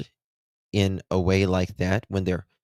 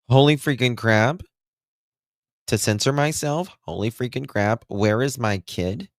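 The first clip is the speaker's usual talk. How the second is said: higher, sing-song mock panic; mocking imitation of the mother; 4 semitones higher than usual. Commenter parodying the mother's interview, high and mocking. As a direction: parody her deadpan, raised pitch. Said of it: "I've showed more expression".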